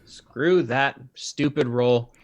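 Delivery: crackling microphone; crackly usb mic. Real, not acted. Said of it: "It's, like, crackling weirdly".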